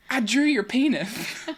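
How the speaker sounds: put-on high toddler voice with slushy lisp; high lisping excited toddler. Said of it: "He has a lateral, lateral lisp".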